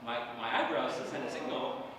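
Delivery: low, soft deadpan complaint; not seeming upset. Retold or imitated. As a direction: claim to be upset while showing none of it. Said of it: "You don't seem upset to me".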